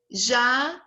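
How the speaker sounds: Jacaré split into Ja - ca - ré; syllable by syllable. Shown as a demonstration. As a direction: leave a gap after each syllable of Jacaré. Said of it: "Três sílabas".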